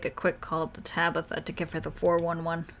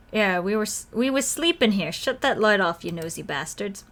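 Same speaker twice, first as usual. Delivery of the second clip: grumpy bats; 3 dB louder than usual. Acted. Bats complain about the flashlight.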